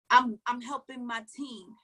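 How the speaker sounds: slow, mildly smug imitation; mock the martyr helper tone lightly; self-righteous tone. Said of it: "don't take the tone of".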